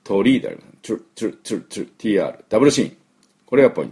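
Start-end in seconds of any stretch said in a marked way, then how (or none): 0.8-1.9 チュリ as one quick "chree" syllable; short repeated "tree" bursts for チュリ, no vowel after the t; English "tri" sound. Shown as a demonstration. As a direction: say チュリ with t and r fused into "chr". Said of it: "この音ですね".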